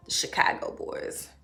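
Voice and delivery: hushed fond repeat; whispered. Real, not acted. Repeating the picture name.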